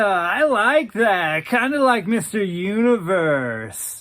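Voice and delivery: Daryl's flattered warble. Acted. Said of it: "He laughed and said".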